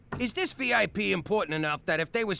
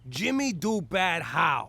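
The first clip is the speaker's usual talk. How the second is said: slow caveman-style Jimmy do bad how; broken English echo; 4 semitones lower, slower than usual. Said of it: "now we're communicating".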